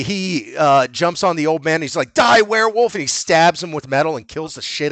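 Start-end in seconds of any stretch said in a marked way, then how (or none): 2.1-2.9 high, loud attack yell; imitated horror-film kill shout; mock battle cry. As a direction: cry out like a hammy monster slayer. Retold attack on old man.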